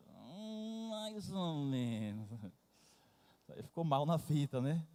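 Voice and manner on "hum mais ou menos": put-on higher, slow, hesitating boy's voice; son's hesitant answer. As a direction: drag it out like a boy reluctant to answer. Son answers mother about her beauty.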